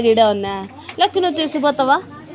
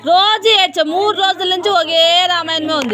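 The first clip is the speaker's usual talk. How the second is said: higher-pitched, exasperated complaint; exasperated scolding; 3 semitones higher than usual. Real, not acted. Teacher to a child who cries at tuition every day, exasperated.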